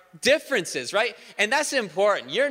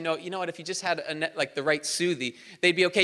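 fast, eager unsolicited advice; lightly voiced know-it-all; hasty know-it-all. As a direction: rattle off advice like you know best. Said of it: "they walk up to you".

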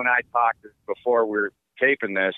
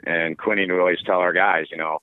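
ordinary delivery

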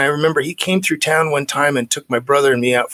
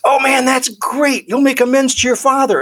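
imitating excited sponsor; 11 semitones higher than usual. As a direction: play the sponsor lighting up like a Christmas tree. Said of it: "He gets all excited".

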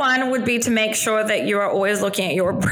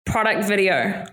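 Kiwi accent, "video" ending as if in an R; relaxed Kiwi pronunciation; New Zealand accent. Shown as a demonstration. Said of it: "an R at the end there".

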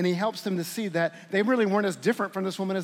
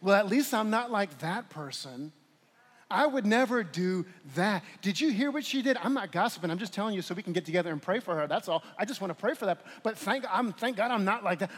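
self-righteous voice; 3 dB quieter than usual. Pretend. Voicing a self-righteous inner Pharisee.

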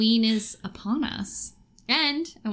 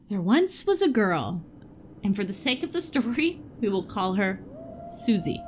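spooky story narration. Acted. Reads a scary story to friends.

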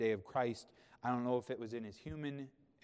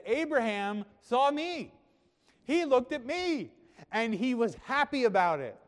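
loud, high preaching proclamation; emphatic declaration; 9 semitones higher, 9 dB louder than usual. Acted. Preacher voices Jesus' emphatic declaration.

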